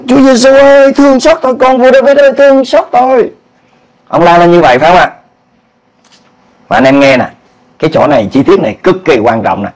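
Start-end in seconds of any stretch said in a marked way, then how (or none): 0.1-3.3 high pleading call; crying out for mercy. Retold or imitated. Blind man calling out to Jesus, high desperate plea. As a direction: lift the voice and beg for mercy. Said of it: "Cho nên ông la lên".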